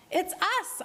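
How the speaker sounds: high excited yell. A narrator's reading. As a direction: call out joyfully from the water. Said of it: "Otter yelled".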